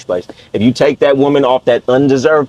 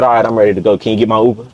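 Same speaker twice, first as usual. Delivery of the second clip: suddenly calm and dry; 4 semitones lower, faster than usual. Retold or imitated. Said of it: "immediately wiped her tears and said".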